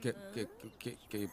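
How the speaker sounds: repeated, halting first syllable; stammering. Acted. Groom promising to care for the bride, stammering. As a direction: get stuck on the first sound before answering. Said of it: "ये हकला है".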